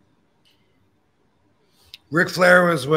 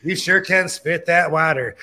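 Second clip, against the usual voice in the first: wrestling promo. Retold or imitated. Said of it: "That's how my voice sounds to me".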